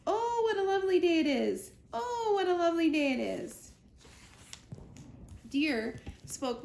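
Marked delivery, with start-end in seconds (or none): 0.1-1.7 high, loud, sing-song chirp; cheerful bird voice. Acted. A chickadee greeting the day, high birdsong. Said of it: "Roz heard". 1.9-3.7 high, loud bird call heard from afar; echoed bird voice. Acted. The same chickadee heard again by Roz, high and distant. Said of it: "Roz heard".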